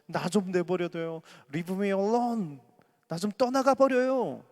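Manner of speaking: rising to a loud anguished cry; a teen begging to be left alone, then shouting; despairing outcry. Acted. Job's outcry, acted despairing plea.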